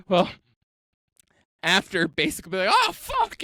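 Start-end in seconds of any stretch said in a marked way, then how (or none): 2.9-3.4 mock scream. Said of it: "and just, like, screaming".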